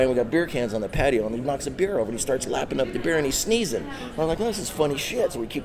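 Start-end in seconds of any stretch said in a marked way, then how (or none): 4.4-5.3 high amused retelling of his own thought. Retold or imitated. Deputy laughing at his drunk dog, high and amused. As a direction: recalls finding the drunk dog hilarious.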